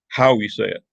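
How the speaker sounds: "how" leaned on, then falling; stress on HOW. Shown as a demonstration. Teacher showing the underlined contrast, stress on "how". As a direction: make "how" the contrasting word. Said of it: "give emphasis to certain words".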